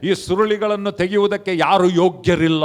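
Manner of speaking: lightly voiced angel announcing to all; angel's proclamation. Angel announces to John that none is worthy, proclaiming. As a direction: declare it formally, like a herald. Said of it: "ಆ ದೇವದೂತನು ಹೇಳ್ತಾನೆ".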